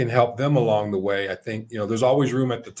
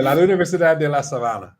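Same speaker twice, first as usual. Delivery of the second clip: American accent Spanish; 4 semitones higher, faster than usual. Shown as a demonstration. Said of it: "Your Spanish is so good".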